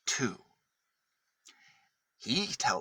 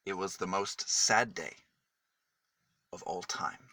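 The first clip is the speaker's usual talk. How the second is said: sad; 5 semitones lower, 4 dB quieter than usual. A narrator's reading. Saddest day in story.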